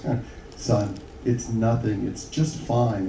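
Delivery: slow, soft mock reassurance; lightly acted fatherly comforting; soothing dad. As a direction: gently play down the upset, slowly. Dad soothing son in joke.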